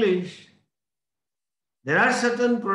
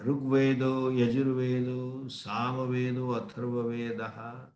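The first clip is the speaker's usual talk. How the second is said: low, level Vedic recital; Sanskrit recitation; 5 semitones lower, 5 dB quieter than usual. Shown as a demonstration. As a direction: list them as a chant, fading softer. Recites names of the Vedas.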